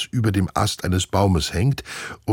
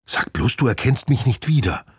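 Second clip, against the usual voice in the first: higher, a touch indignant; lightly voiced glider squirrel; 5 semitones higher than usual. Glider squirrel dismayed Nina doesn't recognize her. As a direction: say it half offended.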